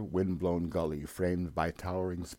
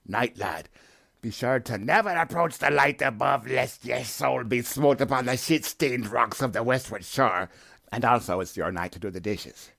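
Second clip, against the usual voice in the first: put-on old sea captain; 5 semitones higher, 4 dB louder than usual. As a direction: growl orders like a crusty sea captain. Captain's ominous warning.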